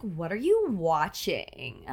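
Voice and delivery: put-on slow, lilting Valley Girl question; Valley Girl up talk. Shown as a demonstration. Showing her friend the voiceover role, slow Valley Girl up talk. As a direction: drawl it with a lift. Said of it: "it's all up talk".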